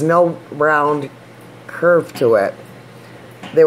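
speaking around a finger; finger on teeth. Real, not acted. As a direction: finger pressed to lips. Seen 1: Index finger held against front teeth while speaking, from 0.4 on.

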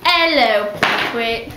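playful put-on British accent. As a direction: speak in a mock British accent. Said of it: "I like to speak in British accents".

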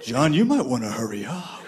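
lightly voiced banana. Banana voiced warning him.

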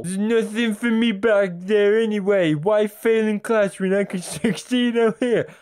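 high, silly character voice; put-on schoolboy dialogue voice. Schoolkids arguing over a kickabout, high put-on voice. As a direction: pitch it up like a hammed-up game character.

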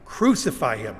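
condemning chant, punched on the first syllable; crowd's cry. Acted. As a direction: cry out the demand, building in force. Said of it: "who cried these words".

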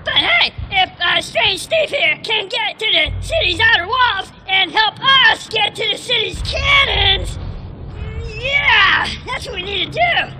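rally the crew with punched-up shouts; fired-up rallying. Acted. Rallying comrades against the odds.

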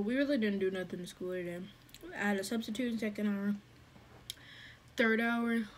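talking while chewing; chewing between words; mouth full. Real, not acted. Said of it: "Sorry if I'm smacking".

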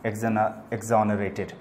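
exonerated drawn out syllable by syllable; a teacher slowly sounding out exonerated; slow word demo. Shown as a demonstration. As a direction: break exonerated apart slowly for the class. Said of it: "teacher spelling out word slowly".

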